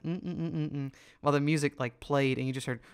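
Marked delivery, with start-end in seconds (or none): 0.0-0.9 mock rhythmic "mm" grunts; short repeated hums, like shaking one's head; imitated grunts. Imitating the kid shaking his face on the couch, mock grunting. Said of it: "just be like".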